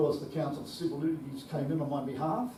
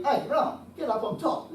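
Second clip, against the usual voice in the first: crowd calling out; 9 semitones higher, 5 dB louder than usual. Retold or imitated.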